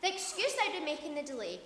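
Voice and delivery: loud, pressing and impatient. Acted. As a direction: demand the news, can't wait. Impatient demand for the news.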